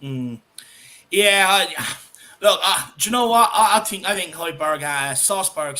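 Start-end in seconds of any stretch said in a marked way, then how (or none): 5.1-5.8 "Salzburg" in a friend's botched pronunciation; borrowed mispronunciation. Retold or imitated. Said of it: "as Jack pronounces them".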